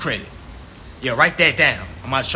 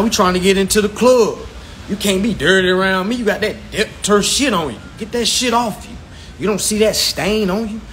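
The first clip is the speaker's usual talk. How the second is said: preacher calling out sin, half in fun; mock preaching. Teacher to viewers, preaching in mock revival style. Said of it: "might take you to church too".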